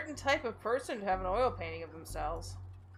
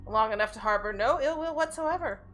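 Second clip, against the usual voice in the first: nanny voice; 6 dB louder than usual. Acted. Voicing the nanny character.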